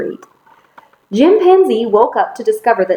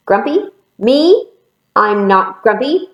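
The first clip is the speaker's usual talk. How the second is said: lightly indignant, pitched up then settling; indignant denial; 2 semitones higher, 3 dB louder than usual. Acted. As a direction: act mildly affronted at the accusation. Grumpy monkey denies it once more.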